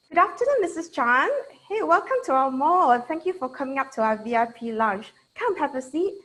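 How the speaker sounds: in character as Julie welcoming Missus Chan; salesperson in character. Acted. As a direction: play a keen sales rep greeting a client. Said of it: "the moment I go action, that means I am in character".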